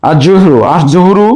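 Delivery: "আর জুহরু" with no L, doubled consonant; silent lam. Shown as a demonstration. Teacher repeating for students, lam silent in "আর জুহরু". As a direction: run the article into the next consonant of "আর জুহরু". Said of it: "লাম উচ্চারণ হচ্ছে না".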